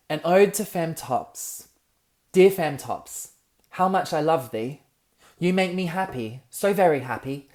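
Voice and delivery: put-on poem recited in a British accent, slow start building to an excited peak. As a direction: recite it as a British ode, getting carried away. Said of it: "read it in a British accent".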